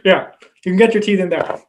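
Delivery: mouthguard in, laughing; wearing a mouthguard. Real, not acted. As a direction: talk past a gum shield. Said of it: "I'm putting my gum shield in right now".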